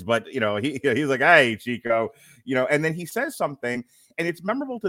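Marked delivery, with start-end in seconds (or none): 1.2-2.1 Razor Ramon voice. Retold or imitated. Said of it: "not in my Brooklyn Jewish voice".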